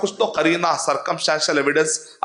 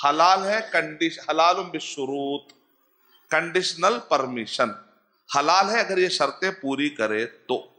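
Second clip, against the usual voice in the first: slow emphatic quote; slower than usual. Retold or imitated. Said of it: "شیخ ابن عثیمین رحمۃ اللہ علیہ کہہ رہے ہیں".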